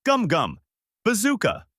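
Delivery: high, punchy battle cry; attack yell. A narrator's reading. Luffy launching his attack at Alvida, high battle yell. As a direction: shout the move name in two rising bursts. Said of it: "threw his arms back and yelled out".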